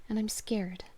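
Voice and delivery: put-on whispered frightened child; scared whisper. Lost girl whispering her fear to her father. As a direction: breathe out the fear.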